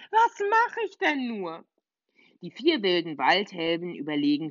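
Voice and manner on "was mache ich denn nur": higher and slower, drawn-out helpless question; more desperate. Acted. Little witch repeating herself, slower and more desperate. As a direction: stretch it out in despair.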